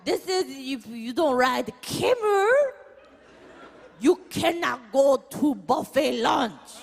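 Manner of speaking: lightly voiced foreign guide; mock guide accent. Guide threatening mom, mock accented voice.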